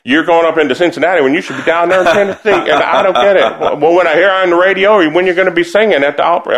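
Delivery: hammed-up grandma who just doesn't get it; Southern grandmother. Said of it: "She goes".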